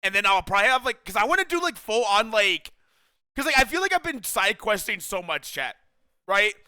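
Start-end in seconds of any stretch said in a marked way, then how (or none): 5.0-6.5 speaking through heartburn. Real, not acted. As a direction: heartburn discomfort in voice. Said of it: "Sorry, heartburn".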